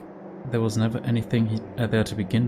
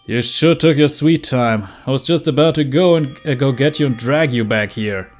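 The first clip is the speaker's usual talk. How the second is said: tough guy voice; 3 semitones higher, 6 dB louder than usual. Acted. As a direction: bark it like a hot-headed thug. Voicing a rough classmate.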